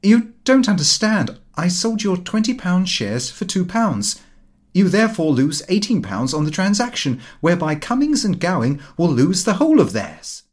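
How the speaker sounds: irritable. A narrator's reading. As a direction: snap the facts at him impatiently. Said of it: "quite irritably".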